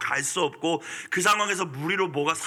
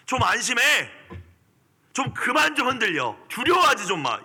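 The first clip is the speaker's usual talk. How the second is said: higher, louder exasperated command; strong rebuke; 9 semitones higher, 4 dB louder than usual. Retold or imitated. Jesus rebuking the fearful disciples, loud stern command. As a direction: scold them to stop shaking. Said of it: "이 어조거든요".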